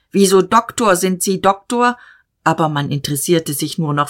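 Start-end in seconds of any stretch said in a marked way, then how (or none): 0.1-2.0 called out. Acted. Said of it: "Diederich rief".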